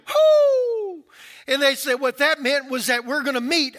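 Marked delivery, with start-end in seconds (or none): 0.1-1.1 high, loud call back down the street; answering holler. Retold or imitated. Neighbor answering down the street, high loud holler. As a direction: shout the reply like a far-off neighbor. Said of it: "calls back to him".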